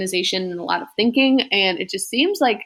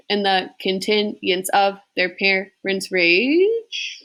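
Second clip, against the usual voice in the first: slow, measured sing-song verse reading; slow iambic poetry reading; poem recitation; much slower than usual. Acted. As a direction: read it out beat by beat like a classroom recital. Second try at the verse.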